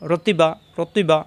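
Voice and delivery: রতিবা spoken slowly, each syllable apart; slow drill. Shown as a demonstration. Teacher drilling students slowly on রতিবা. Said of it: "হরকত উচ্চারণ তাড়াতাড়ি".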